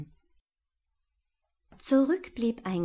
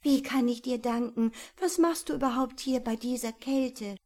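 grateful owl; 4 semitones higher than usual. Acted. Owl asks mouse.

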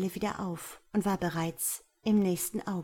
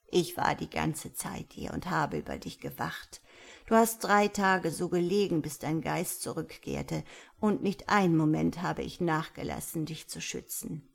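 lightly voiced elder, calmly explaining; a hint of a kindly old woman; old village elder; 2 semitones lower than usual. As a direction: explain patiently as the old teacher.

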